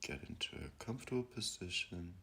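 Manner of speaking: calm, unhurried meditation guide; guided meditation. Acted. Guiding listeners to breathe and settle, calm meditation voice. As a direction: ease them into stillness with long pauses.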